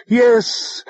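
high, emphatic outburst; yelled. A narrator's reading. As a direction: snap out a defiant yell. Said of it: "she yelled".

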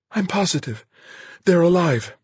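put-on high young woman's voice, insistent; steady her voice and insist; Marguerite, earnest. Marguerite's character voice.

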